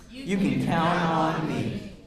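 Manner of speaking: put-on slow, deliberate words for the kids to echo; slow modeled repeat. Shown as a demonstration. Asking the children to repeat, slow deliberate read. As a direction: spell the phrase out slowly for the class. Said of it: "Can you guys say it one more time?".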